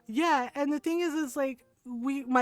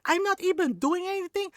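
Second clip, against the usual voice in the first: high-pitched indignant imitation of mom; mock outraged mother throwing his words back; yelling angry mom; 7 semitones higher than usual. Tiny mom whooping her son, outraged imitation. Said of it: "and she's yelling".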